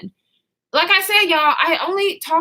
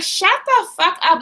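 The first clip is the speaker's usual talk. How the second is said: higher-pitched retold yell, not full volume; mock scream; 5 semitones higher than usual. Fed-up passenger silencing everyone in the car, mock yell. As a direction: act out yelling with the volume held back. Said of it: "I'm screaming at the top of my lungs".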